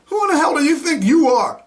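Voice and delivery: furious yelled challenge; angry demand. Real, not acted. Angry rant at officials.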